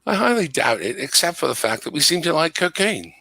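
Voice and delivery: joking in a put-on British accent; phony British accent. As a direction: keep up the amateur British accent. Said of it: "I'm gonna try to put on a British accent".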